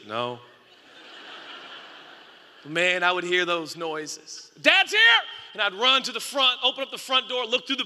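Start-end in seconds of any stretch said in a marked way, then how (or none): 0.1-0.4 sheepish laugh. Retold or imitated. Child's sheepish answer, laughing. 4.6-5.2 put-on very high, loud child's cry of joy; excited shout. Child shouting at porch noises.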